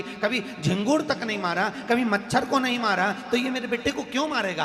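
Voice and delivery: high, insistent storytelling as the king; mildly impassioned royal protest; king's troubled reasoning. Acted. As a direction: argue his innocence, pitch lifted and emphatic. King argues pandit is innocent.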